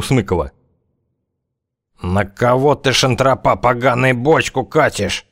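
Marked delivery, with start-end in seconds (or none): 2.0-5.3 slow, intimate threat; soulfully menacing. Acted. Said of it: "проникновенно сказал зяблик".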